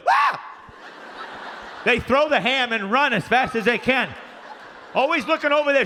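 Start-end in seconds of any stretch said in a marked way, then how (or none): 0.1-0.4 mock scared yelp. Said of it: "This is what they do".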